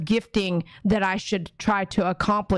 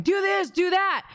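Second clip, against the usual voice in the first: higher, bossy barked orders; mock yell; 9 semitones higher than usual. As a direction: boss her around like a coach. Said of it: "I'm just gonna yell at you".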